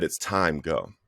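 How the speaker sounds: hushed retelling of a quiet voice; soft whisper. Retold or imitated. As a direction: say it gently and quietly, like a whisper in the heart. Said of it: "it was just like this soft whisper".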